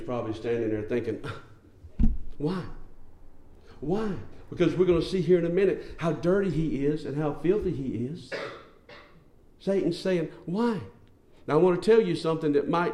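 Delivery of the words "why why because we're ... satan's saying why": puzzled why. Acted. Satan's puzzled question voiced.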